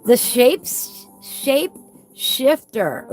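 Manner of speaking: hissing whistle on the S sounds; whistling s. Real, not acted. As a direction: let the S's whistle. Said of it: "that's a hard one for me to say. Sorry, guys, for my whistle".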